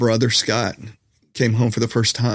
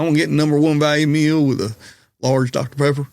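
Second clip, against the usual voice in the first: put-on thick Southern accent; 3 semitones higher than usual. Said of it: "all of a sudden it got super thick".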